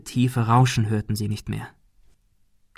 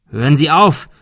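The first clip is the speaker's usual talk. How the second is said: louder, raised plea to stop; calling out; 4 semitones higher, 6 dB louder than usual. A narrator's reading. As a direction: shout it across to the gunman. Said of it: "rief Thomas".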